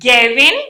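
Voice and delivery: గెవిన్ with a short first vowel; గెవిన్ without a drawn-out glide; fast-speech form. Shown as a demonstration. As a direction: say గెవిన్ as "ge-vin", rising at the end. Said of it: "గెయ్ అనేస్తాం కదా".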